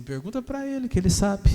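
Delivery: mocking demon. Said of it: "O demônio falou assim".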